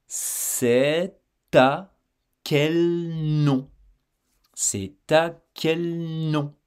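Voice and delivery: "C'est à" said slowly with the t joined to "à"; slow liaison demo. Shown as a demonstration. Teacher to learner, slowly showing the liaison. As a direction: draw out "C'est à quel nom" so the t is heard. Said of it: "tu entends qu'il y a ... une liaison".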